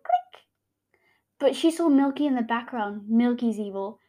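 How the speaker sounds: hammed-up comic reading with voices; wild unhinged ranting. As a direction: act out the comic wildly. Reads her childhood comic aloud.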